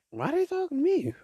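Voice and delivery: hushed aside, bewildered; puzzled whisper. Retold or imitated. Whispering to himself as strangers chat him up. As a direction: whisper it, baffled.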